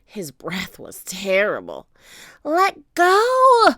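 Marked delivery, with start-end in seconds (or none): 2.4-3.7 high, loud demand; defiant high-pitched shout; shouting in his face. A narrator's reading. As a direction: yell it high right at the captor. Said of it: "Annie shouted into his face".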